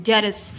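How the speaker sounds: जरस repeated as ja-ras; correct pronunciation. Shown as a demonstration. Teacher repeats the right form for learners, जरस in two syllables. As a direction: say जरस with both vowels sounded. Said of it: "बल्कि जरस है".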